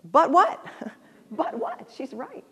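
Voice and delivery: sudden loud rising question; surprised realization. Real, not acted. Grandma realizing the child is right, loud startled question. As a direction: catch yourself mid-thought, startled. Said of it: "and then I thought".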